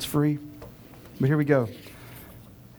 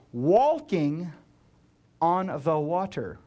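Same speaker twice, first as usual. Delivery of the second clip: slow, pausing between each phrase; wondering reread; slow, pondering; slower than usual. Shown as a demonstration. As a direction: savour the strangeness.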